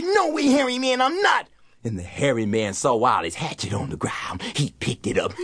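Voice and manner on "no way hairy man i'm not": put-on higher, cocky child's voice; a boy refusing from the treetop; young Wally, stubborn and sure; defiant boy.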